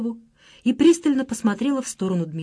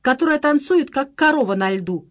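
loud, high jeering call; mocking shout; 5 semitones higher, 3 dB louder than usual. A narrator's reading. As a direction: jeer at her across the room. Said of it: "закричала Марина". (громкий насмешливый выкрик)

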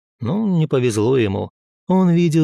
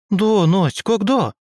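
put-on much higher, childlike amazed asking; surprised question; 8 semitones higher, slower than usual. A narrator's reading. Dunya joins the question to Nastya, high amazed child. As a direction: chime in, wide-eyed. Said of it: "удивлённо присоединилась к вопросу Дуня".

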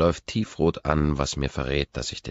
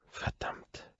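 hushed, private swearing; whispered curse; 13 dB quieter than usual. A narrator's reading. Narrator cursing inwardly as she turns away, whispered. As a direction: whisper it to yourself in dismay.

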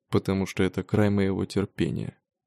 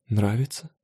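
purring cat. A narrator's reading. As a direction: purr the word like a cat. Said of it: "промурлыкала она".

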